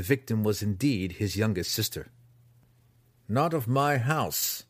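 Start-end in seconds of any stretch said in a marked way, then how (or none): 3.3-4.6 relieved. Acted. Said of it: "with obvious relief".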